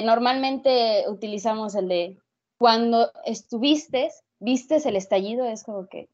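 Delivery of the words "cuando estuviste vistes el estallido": "cuando estuviste, vistes el estallido" slow, word by word; said slowly. Shown as a demonstration. Student showing listeners the confusing phrase, said slowly. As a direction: spell out the tongue-twister slowly, with a pause. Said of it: "Cuando lo digo así lento, se entiende".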